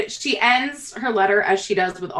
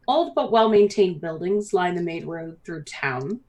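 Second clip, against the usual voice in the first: lilting scene-setting narration; game master narration; slower than usual. Acted. Game master welcomes players to Briar Glen, storytelling lilt. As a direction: paint the arrival for the players.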